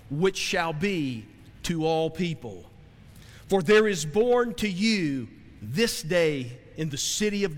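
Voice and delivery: slow, solemn reading of the verse; scripture reading. Acted. Preacher reading the angel's proclamation to the church, slow and solemn. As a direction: read it out like the pulpit Bible.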